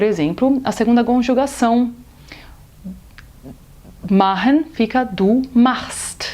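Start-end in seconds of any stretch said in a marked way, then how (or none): 4.1-6.3 machst with a plain dry st at the end, slow. Shown as a demonstration. Teacher showing st at word end. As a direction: say du machst slowly, st unchanged. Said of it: "falado normalmente".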